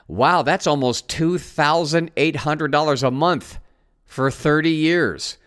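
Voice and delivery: deadpan mock-impressed, in measured phrases; sarcastic. Real, not acted. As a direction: act impressed and mean the opposite. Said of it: "you're being sarcastic".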